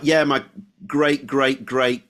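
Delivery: mock Cockney boast of distant roots; thick Cockney accent. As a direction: imitate a Cockney, lightly put on. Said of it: "like, thick Cockney accent".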